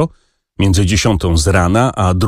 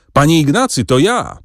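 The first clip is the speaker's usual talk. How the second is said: mild mock shout; 6 semitones higher than usual. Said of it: "krzyknął mu w ucho".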